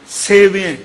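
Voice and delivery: ਸੇਵਿਐ with a short i after ਵ; careful correct pronunciation. Shown as a demonstration. Preacher spelling out the word, careful short-i ਸੇਵਿਐ. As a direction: set ਸੇਵਿਐ apart, short middle vowel. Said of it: "ਜਿਵੇਂ ਪਾਠ ਸੁਣਿਆ ਕਰਨੇ".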